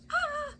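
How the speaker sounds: short, very high delighted "ah"; excited squeal. Real, not acted. Reader reacts to the cards, excited squeal. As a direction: let out a high little squeal. Reacts to heart card appearing.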